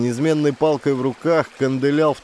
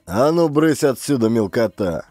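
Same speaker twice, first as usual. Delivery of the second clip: barked order. Acted. Gang boss Klin to the small fry, barked order. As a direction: bark at underlings to clear off. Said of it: "вдруг рявкнул".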